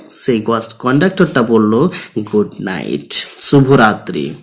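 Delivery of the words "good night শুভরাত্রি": amiable. Retold or imitated. Teacher voices the conductor's good night to students, amiably. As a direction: say it gently, dropping pitch and volume. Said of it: "নম্রভাবে, নরমভাবে বলল".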